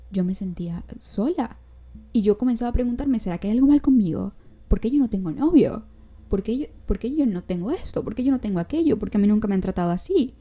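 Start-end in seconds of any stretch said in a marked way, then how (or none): 3.2-10.3 anguished self-questioning. Retold or imitated. Retelling own anxious questions.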